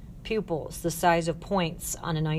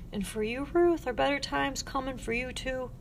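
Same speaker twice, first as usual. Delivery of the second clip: soft, higher-pitched asking; tender question; 6 semitones higher, 3 dB quieter than usual. Acted. Girl asking Ruth about her future, tender. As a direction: ask gently, with hope.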